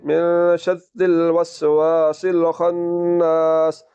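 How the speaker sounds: slow, sustained chant; Quran recitation. Shown as a demonstration. Teacher reciting the whole ayat for students, slow chanted recitation. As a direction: recite with long vowels and held nasal n. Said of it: "पूरी आयत किस तरह होगी".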